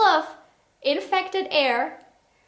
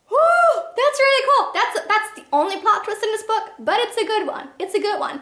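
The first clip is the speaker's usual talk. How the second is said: excited cheer; 7 semitones higher than usual. Real, not acted. The reviewer praising the only good twist, thrilled. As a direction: cheer like the twist won you over.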